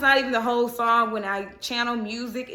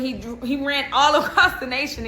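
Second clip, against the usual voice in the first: laughing; 3 semitones higher, 3 dB louder than usual. Real, not acted. Laughs mid-sentence.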